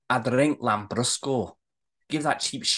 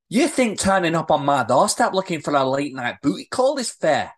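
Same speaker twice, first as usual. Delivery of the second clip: mounting affronted tirade; scolding, with growing indignation; indignant rant. Acted. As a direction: build the rant towards an outraged question. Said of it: "too deep in her rant".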